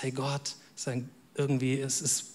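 very soft and low, almost to oneself; hushed doubt. Acted. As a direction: voice a quiet, private confession to God. Voicing a doubter who feels God distant.

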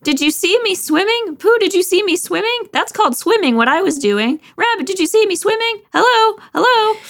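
very high, squeaky, bragging; excited little Roo. Acted. Roo boasting to Pooh and Rabbit after swimming, squeaky. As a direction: squeal it to everyone, over the moon.

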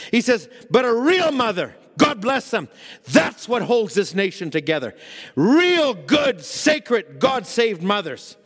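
preaching. Real, not acted. Preacher quoting a prophet to the congregation, emphatic preaching. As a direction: preach it forcefully, stretching the key words.

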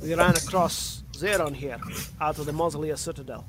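put-on wobbly accent between Scottish and Russian. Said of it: "get out of this fucking accent".

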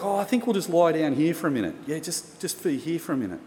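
easy-going retold reassurance; happy, friendly. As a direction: imitate someone keeping things light. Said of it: "friendly guy".

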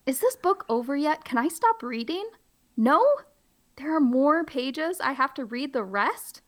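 high begging to stop; whiny pleading. Pretend. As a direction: beg to stop reading. Pleading reader.

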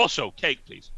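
comically imperious and loud; bellowed demand. Acted. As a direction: bellow out a cake order. Bellowed demand continues, comic add-on.

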